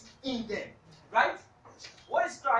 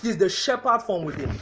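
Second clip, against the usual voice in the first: proclaimed; 2 semitones lower, 10 dB louder than usual. Real, not acted. Preacher repeats key line loudly.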